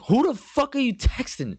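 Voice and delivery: very high-pitched mock outrage; hammed-up squawk of indignation; indignant demand. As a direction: reenact a drunken, angry interrogation. Retold angry phone quarrel.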